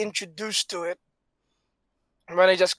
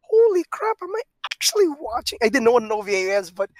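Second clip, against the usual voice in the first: excited disbelief; 4 semitones higher, faster than usual. Retold or imitated. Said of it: "I was like".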